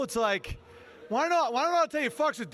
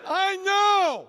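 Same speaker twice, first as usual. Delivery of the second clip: high, loud acted outburst; mock exasperated yell; 8 semitones higher, 5 dB louder than usual. Deaf kid reacting to the sign, acted yell. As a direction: yell it, pitch way up and falling off.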